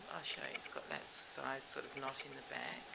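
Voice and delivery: normal talking voice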